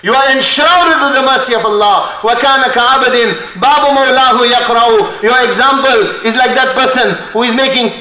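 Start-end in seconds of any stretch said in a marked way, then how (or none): 2.2-5.2 rapid chanted Arabic verse; poem recitation. Acted. Preacher reciting poetry to the congregation, rapid chant. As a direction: recite the verse fast, in one breath.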